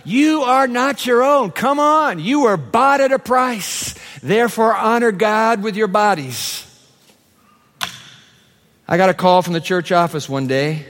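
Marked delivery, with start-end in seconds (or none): 0.0-6.7 scripture reading. Acted. Pastor reading Corinthians to his church, preaching voice. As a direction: proclaim the verse to the congregation.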